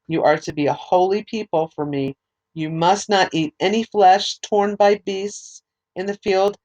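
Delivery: measured, formal Bible reading; scripture reading. Acted. Reading Exodus aloud to listeners, measured scripture reading.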